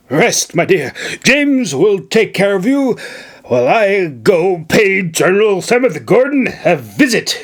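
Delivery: declaring governor. Acted. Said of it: "he declared".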